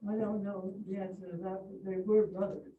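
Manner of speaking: muffled behind a mask; speaking through a cloth mask; through a face mask. Real, not acted. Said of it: "you can hear me through my mask".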